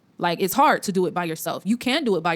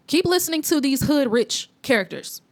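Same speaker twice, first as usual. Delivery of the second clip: higher pitch, leaning on "rich"; stress on rich; 4 semitones higher than usual. Real, not acted. Vlogger warns viewers about hood rich characters, stressing "rich". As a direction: put the emphasis on the word "rich". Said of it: "Emphasis on rich".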